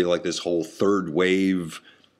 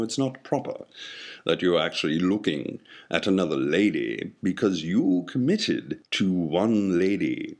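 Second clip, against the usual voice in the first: put-on British accent. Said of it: "I don't know why my brain is British".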